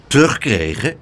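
a touch of suspicion; wary questioning echo; suspicious. Acted. Aunt picks up Pluk's word, mildly suspicious. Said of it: "vroeg tante Pleeg argwanend".

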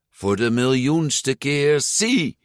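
slow, high, drawn-out exasperation; exasperated. A narrator's reading. Giulia answers her fussing father, slowly and with exasperation. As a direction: stretch it out like a fed-up child.

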